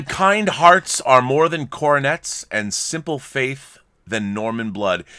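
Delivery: slow, measured recitation of a line; a line read slowly and grandly from the film; quoting a line. Shown as a demonstration. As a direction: savor each word like a famous film line. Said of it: "the line".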